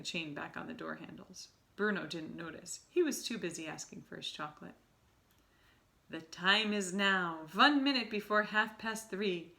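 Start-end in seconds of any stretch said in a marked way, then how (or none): 6.1-9.5 slow, louder witch proclamation; Grand High Witch announcing to the assembled witches. Acted. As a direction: announce the hour like a gloating witch. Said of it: "announced the Grand High Witch".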